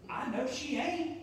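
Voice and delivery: high, slow, sassy retort; teenage me scoffing under my breath; sassy aside. Retold or imitated. Young youth worker scoffing at the lady, high and slow. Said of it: "I'm like".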